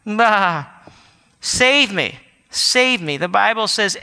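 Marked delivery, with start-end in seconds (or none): 0.0-0.7 crying out like a sheep. Retold or imitated. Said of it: "but to cry out". 1.4-3.2 crying out. Retold or imitated. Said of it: "but to cry out".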